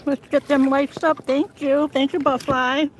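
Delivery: talking through a mouthful; words round a bite of food; mouth full. Real, not acted. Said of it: "Sorry, I'm talking with food in my mouth".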